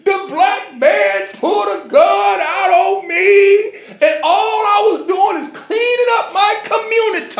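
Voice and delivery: mock her tears while cracking up; mock crying through laughter. Laughing while imitating the crying woman's accusation. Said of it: "she sits there and she's crying".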